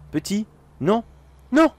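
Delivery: high desperate cry of no; panicked shout. Acted. To the vanishing child, high panicked shout.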